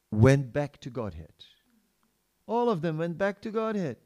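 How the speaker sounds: loud and pleading, a grieving devotee; Hanuman's lament. Retold or imitated. Hanuman laments his separation.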